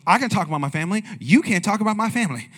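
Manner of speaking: mock protective wife; playful wife's retort, stress on can; wife snapping back about family; imitating the wife. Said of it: "And she goes".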